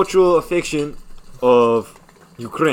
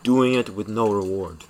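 put-on Ukrainian accent; 3 semitones lower than usual. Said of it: "respond in the same accent".

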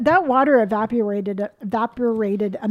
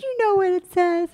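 higher-pitched mock indignation; retold protest; 8 semitones higher than usual. Mom refusing to read the sign for kids, mock protest. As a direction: imitate a mom who is onto the teasing.

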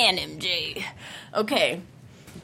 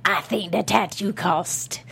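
teabag voice. Retold or imitated. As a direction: drag it out like the creepy inmate. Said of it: "say in my teabag voice".

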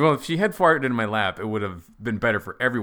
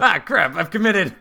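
louder, higher, laughing outburst; mock dismay; 8 semitones higher, 8 dB louder than usual. Realising he's committed to the rhyme, laughing mock dismay. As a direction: blurt it out through a laugh.

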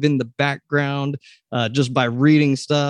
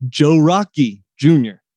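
Pittsburgh accent, lightly; 4 dB louder than usual. Shown as a demonstration. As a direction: roll "Joe Rockey Junior" off the tongue in a light Pittsburgh accent. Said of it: "I have to say it in this accent".

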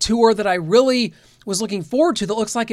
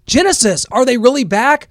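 punchy, louder radio-promo read; teaser headlines; 3 semitones higher, 6 dB louder than usual. Acted. Host teasing the episode's rock news, punchy promo read. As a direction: tease the show's stories with lifted, emphatic energy.

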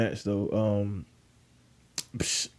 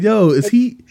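high-pitched, incredulous retelling; baffled disbelief; 7 semitones higher, 4 dB louder than usual. Retold or imitated. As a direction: question it in a high, bewildered voice. Retold baffled reaction to awkward story.

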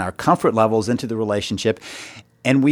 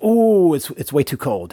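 mock Goldilocks squeal; 3 semitones higher than usual. Retelling Goldilocks to podcast listeners, squealing a high ooh. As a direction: squeal the ooh like a little girl. Goldilocks tasting porridge in story.

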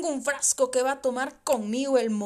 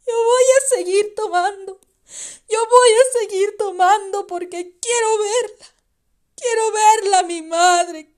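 sobbing, louder cry of a desperate son; a son crying out that he misses his mother; 5 semitones higher, 8 dB louder than usual. Retold or imitated. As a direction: wail it through tears, pleading.

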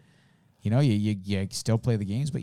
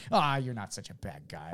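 mock calm after a rant; easygoing, settled-down voice; 3 semitones lower, 3 dB quieter than usual. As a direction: let the anger deflate into a forgiving mumble. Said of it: "I fucking calmed down quite a bit".

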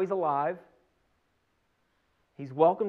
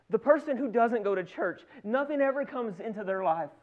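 higher acted comparison, full of grievance; aggrieved protest; 4 semitones higher than usual. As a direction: object like an envious churchgoer. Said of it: "Has something ever been unfair".

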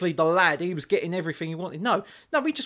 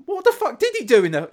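shocked inner thought; 8 semitones higher, 6 dB louder than usual. Retold or imitated. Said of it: "And I thought".

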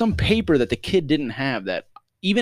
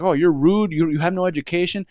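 arguing; 8 semitones higher, 4 dB louder than usual. Retold or imitated. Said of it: "The guy starts arguing with her".

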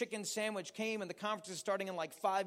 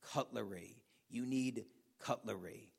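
waitress correcting; 8 semitones lower, 7 dB quieter than usual. Retold or imitated. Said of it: "And she says".

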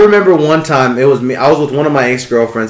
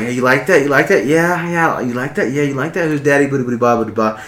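mock sexy murmur; 6 dB quieter than usual. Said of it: "I'm like".

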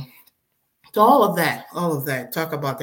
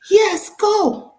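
husband's answer; 9 dB louder than usual. Retold or imitated. Husband's calm surprising answer.

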